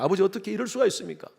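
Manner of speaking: put-on older son confronting father, mildly indignant; arguing. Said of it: "따집니다".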